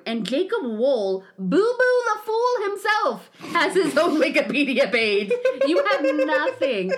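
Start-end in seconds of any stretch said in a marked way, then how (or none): 5.7-6.9 emphatic. Shown as a demonstration. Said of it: "repeated for emphasis".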